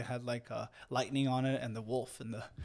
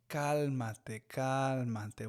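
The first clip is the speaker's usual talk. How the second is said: calm grandpa in Spanish; much slower than usual. Retold or imitated. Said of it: "my grandpa being very calm".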